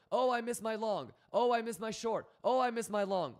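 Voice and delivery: high, loud sing-song whining, each line falling; hammed-up crybaby falsetto on repeat; whiny mock complaint. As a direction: parrot the complainers over and over in a mocking wail. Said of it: "how many people have told me".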